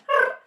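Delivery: short squirrel trill; imitated little animal chirrup; quick burst like a squirrel; squirrel noise. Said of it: "like a little squirrel".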